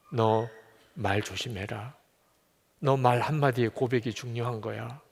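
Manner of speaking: low, slowing voice of God; solemn divine warning. Acted. God cautioning David in quote. (낮고 차분하게 타이르는 하나님 목소리)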